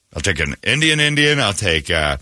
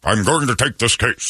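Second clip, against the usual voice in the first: lightly voiced Southern lawyer; a hint of an old-time Southern attorney; Atticus Finch. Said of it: "Atticus Finch".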